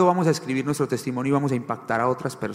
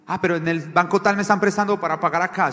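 higher-pitched pleading excuse; acted excuse; 5 semitones higher, 4 dB louder than usual. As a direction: play someone arguing their way round a rule. Voicing a tempted debtor's excuse.

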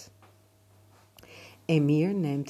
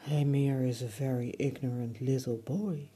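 palm tree spirit voice; 3 semitones lower than usual. Acted. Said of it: "the spirit of the palm tree said".

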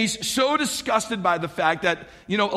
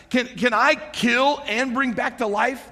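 mock-stressed king, slow and higher; slowed, incredulous retold plea; distraught; 5 semitones higher, slower than usual. Preacher voicing the overwhelmed king, mock-distraught. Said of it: "how distraught and stressed out the king".

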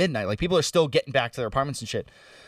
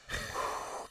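long exhale, imitating nausea held down; controlled breathing; 15 dB quieter than usual. Nauseous passenger in the back seat, demonstrating controlled breathing. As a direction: blow out a slow, steadying breath. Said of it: "just breathing, controlling my breathing".

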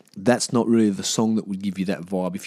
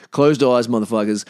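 louder, punchy title call; loud announcement; 6 dB louder than usual. Real, not acted. Re-announcing the episode title to listeners, loudly. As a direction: shout the title proudly.

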